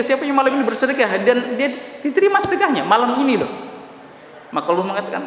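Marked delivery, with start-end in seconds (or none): 0.0-3.5 high, urgent call to the companions; the Prophet asking the companions a third time. Acted.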